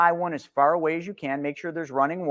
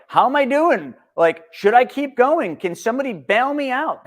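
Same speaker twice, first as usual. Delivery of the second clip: higher, louder whiny pleading; mock helpless investor; 8 semitones higher, 5 dB louder than usual. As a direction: whine like someone begging to be bailed out. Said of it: "That's the mentality".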